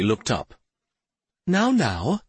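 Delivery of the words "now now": high-pitched gentle fairy voice; gently hushing, pitched up high; soft soothing fairy. A narrator's reading. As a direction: soothe her like a tender little fairy. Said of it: "she said softly".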